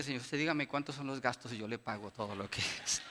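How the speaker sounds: low, soft, weary father; a lightly voiced dad offering to pay; resigned father. Father offering to pay for the walls, low and soft. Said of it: "Y dice".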